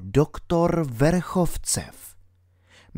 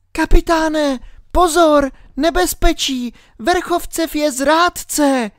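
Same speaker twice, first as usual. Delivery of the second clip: shouted warning. A narrator's reading. Alenka warns the captain of the traitor, a high shout. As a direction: call the warning out as a frightened girl, much higher. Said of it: "vykřikla".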